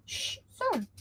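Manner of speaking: quiet hush to the dog; gentle quiet shush; soft shush. Real, not acted. Hushing dog.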